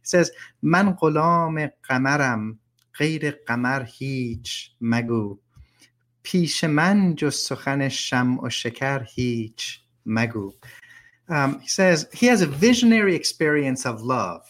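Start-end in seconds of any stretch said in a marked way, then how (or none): 0.6-10.5 measured poem reading in Persian; rhythmic Persian recitation. Shown as a demonstration. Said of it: "I'll read a couple lines in Persian so you get a sense of its rhythm".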